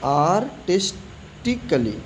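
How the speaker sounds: आर्टिस्टिकली said slowly as "aar-tis-ti-ka-li"; careful model word. Shown as a demonstration. Teacher modelling आर्टिस्टिकली slowly for the class. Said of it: "ए silent है".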